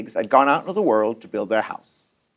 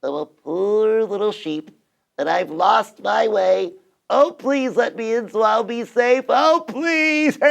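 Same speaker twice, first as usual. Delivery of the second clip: lightly voiced, slow pitiful sheep; wolf faking a timid little sheep; little tiny voice; 4 semitones higher, slower than usual. Wolf tricking pigs as a poor lost sheep, tiny voice. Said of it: "a little tiny voice".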